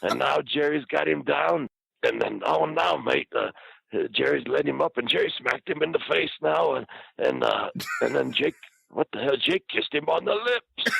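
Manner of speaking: high-pitched mock commentary, building to disbelief; Bushwhacker. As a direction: relay every blow in an excited put-on voice. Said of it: "narrating everything to everybody".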